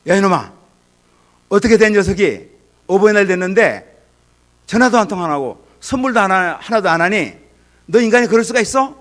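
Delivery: put-on high, loud furious rebuke of a child; yelling at a child who forgot Parents' Day; angry scolding father. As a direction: blow up at the ungrateful kid, voice climbing.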